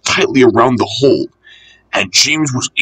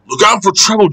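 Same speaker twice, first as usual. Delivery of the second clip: raised-pitch storybook warning; urgent heads-up, lightly acted; 8 semitones higher, faster than usual. A narrator's reading. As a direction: call it out as a caution. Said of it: "warned his driver".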